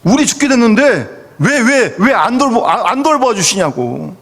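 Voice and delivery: whiny, reproachful plea to the teacher; resentful complaint. Retold or imitated. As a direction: complain like a frightened disciple. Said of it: "아주 원망조 얘기죠". (원망하는 말투)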